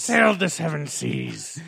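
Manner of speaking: pirate voice. Pretend. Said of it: "shanty pirate voice".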